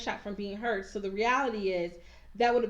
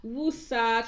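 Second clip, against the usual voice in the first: mock calming breath; 4 dB louder than usual. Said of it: "trying to have a woosah moment".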